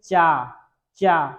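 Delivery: चा said clearly as a teaching example, tongue on the palate; demo syllable cha. Shown as a demonstration. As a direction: sound out चा slowly for the class. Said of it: "चा को बोलने के लिए आप बोलेंगे".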